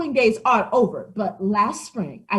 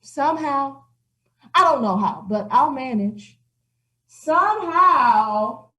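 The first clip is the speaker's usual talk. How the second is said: milk the pity for sympathy; self-pitying old cat; 6 semitones higher than usual. Acted. Old cat pities herself.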